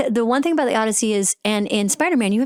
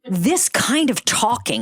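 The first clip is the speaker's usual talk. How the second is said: put-on slow, overdone American accent; Brit's American accent; slower than usual. Mocking Brits doing American, slow overdone accent. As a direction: exaggerate American sounds like a Brit. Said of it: "when they do American accents".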